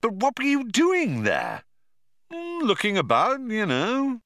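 figure voices. A narrator's reading. Arthur and Zaphod exchange.

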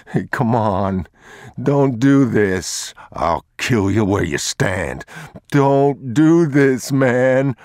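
high, loud, frantic pleading; a cornered thief begging the father; desperate thief. Acted. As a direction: plead for your life, voice cracking up.

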